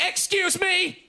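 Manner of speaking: high, drawn-out mock indignation; indignant lady. Indignant lady bumped on platform.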